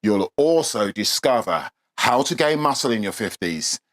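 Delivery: soft, steady promo read. Acted. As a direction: sell it smoothly and evenly. Reads a promo for the cheat sheet.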